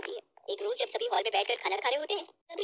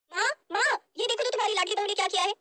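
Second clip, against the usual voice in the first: higher, indignant cry for mother; angry calling out; 6 semitones higher, faster than usual. Acted. Daughter calling mother to accuse her sister-in-law, angrily. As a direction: call out in outrage, then complain fast. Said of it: "गुस्से में चिल्लाते हुए कहती है".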